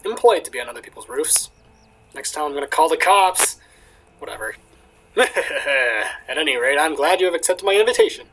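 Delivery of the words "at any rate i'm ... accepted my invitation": a hint of a Russian accent for the old astronomer; Russian-accented host, lightly done. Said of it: "I'm not good at, at Russian accents".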